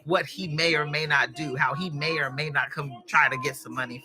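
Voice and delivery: soft and low, reassuring her son; a mother's gentle low reassurance to her son. Retold or imitated. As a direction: comfort him softly. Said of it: "in the most gentle way".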